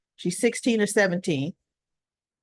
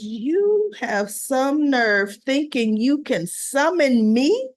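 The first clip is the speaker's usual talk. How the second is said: indignant boss; 4 semitones higher, slower than usual. Retold or imitated. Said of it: "he goes".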